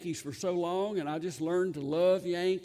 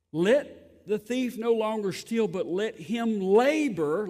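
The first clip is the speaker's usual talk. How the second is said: scripture read; 3 semitones higher, 6 dB louder, slower than usual. Acted. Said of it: "It says".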